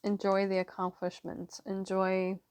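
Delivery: talking around a throat lozenge; lozenge in mouth. Real, not acted. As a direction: speak with a lozenge in your mouth. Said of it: "sorry, I have a lozenge in my mouth".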